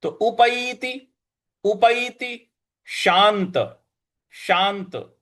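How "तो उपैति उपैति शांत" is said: उपैति with ऐ as a split a-i glide, slow and higher; Sanskrit ai sound. Shown as a demonstration. Teacher showing the Sanskrit ऐ in उपैति. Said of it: "ऐ की जगह ऐ बोलते हैं".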